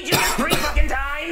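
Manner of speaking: incredulous shout. Acted. Incredulous outburst.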